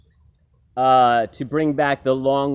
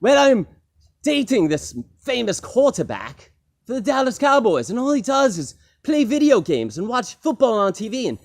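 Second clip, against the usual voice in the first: complaining singer; 7 semitones higher than usual. Retold or imitated. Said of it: "And the singer says".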